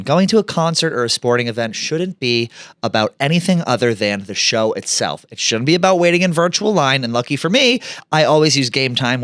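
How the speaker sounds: upbeat sponsor read; bright podcast ad read. Acted. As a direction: sell it like a host-read ad. Host reads sponsor ad.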